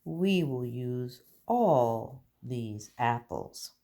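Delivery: slow, careful read of the full sentence; slow modelled sentence. Shown as a demonstration. Teacher modelling the answer sentence, slowly. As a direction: say each word slowly for the class. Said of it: "Good job".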